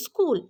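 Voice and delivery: school starting straight on the s; correct school pronunciation. Shown as a demonstration. Teacher correcting the common iskul, a clean school. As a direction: say school with no i before it. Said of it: "actually কি".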